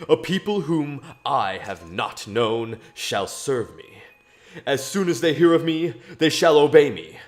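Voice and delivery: solemn biblical reading voice; mock biblical prophet. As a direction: read it like an old prophet. Reads Psalms in mock preacher voice.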